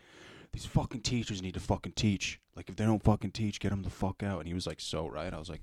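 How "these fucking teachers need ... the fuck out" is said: worked-up, freaking-out, agitated rant. Retelling someone who came into class and freaked out: imitating someone freaking out. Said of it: "he just started fucking freaking out. He's like".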